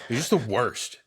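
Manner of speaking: lightly voiced casual bro preaching; bro Jesus. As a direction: play Jesus as a mildly exasperated bro. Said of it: "Imagine if Jesus was just a bro".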